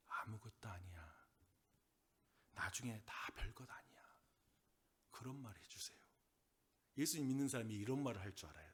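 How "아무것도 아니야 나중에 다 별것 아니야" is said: slow, whispered reassurance; gentle whisper. Acted. Believer consoling an anxious friend, whispered. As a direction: hush them with it, slowly. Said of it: "그들에게 여러분 이런 말 좀 해주세요".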